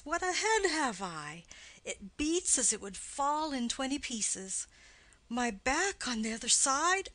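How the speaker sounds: lightly voiced aching old nurse; moaning about her head and back; complaining old nurse. Nurse voice in play reading.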